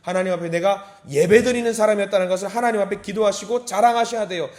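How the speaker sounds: normal talking voice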